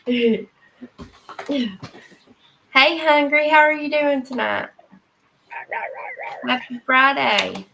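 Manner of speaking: loud, fast chirpy dog greeting; dog's voice. Retold or imitated. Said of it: "He's like".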